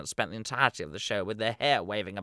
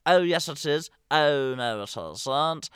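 panto shout-back; 4 semitones higher, 4 dB louder, slower than usual. Retold or imitated. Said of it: "Common call and responses are".

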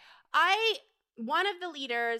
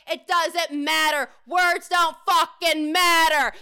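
angry; 2 semitones higher, 6 dB louder, slower than usual. Real, not acted. Angry rant about Hamas rhetoric.

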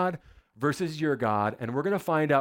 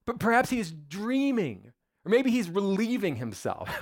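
higher, sing-song sarcastic taunt; mocking; 6 semitones higher than usual. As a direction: poke fun at their god. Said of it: "Elijah began mocking them".

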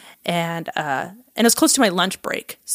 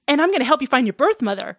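high, quick imitation of an eager friend; retold eager rush; excited announcement; 6 semitones higher, faster than usual. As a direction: rattle off the big news, pitch up. Imitating friend announcing more news.

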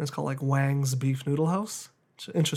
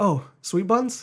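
higher, drawn-out questioning quote; imitated restaurant lady; 5 semitones higher, slower than usual. Lady greets the pickup customer, imitated slow surprised recognition. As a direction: mimic her slow, rising recognition.

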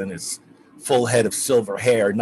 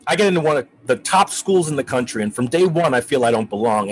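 higher and louder, building, fast at first; rising outrage; 3 semitones higher, 4 dB louder, faster than usual. Acted. Student to professor, venting his humiliation with mounting indignation. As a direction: let the hurt boil over into anger. Ephraim pours out his grievance.

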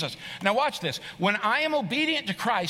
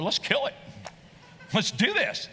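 mock pumped-up; 2 semitones higher than usual.

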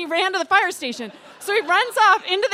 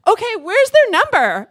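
raised, higher voice calling out; flustered husband; 7 semitones higher, 9 dB louder than usual. Retold or imitated. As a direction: call from the next room, flustered. Flustered husband calls from other room.

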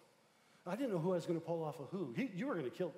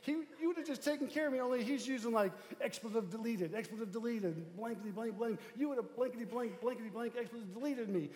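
mock man's voice; 6 semitones higher than usual. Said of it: "He's like".

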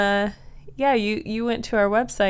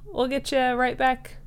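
high friendly voice; 4 semitones higher than usual. Acted. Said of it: "Ethel's like".

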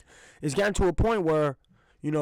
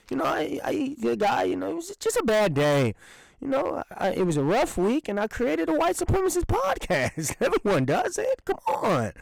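mocking racist excuse; 8 semitones higher than usual. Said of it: "you can just kinda say".

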